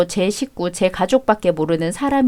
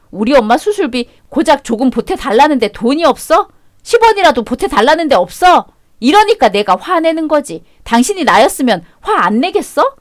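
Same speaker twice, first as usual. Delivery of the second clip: angry outburst; 3 semitones higher than usual. Acted. Wife demanding money for her mother's surgery, angry. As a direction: let the anger boil over.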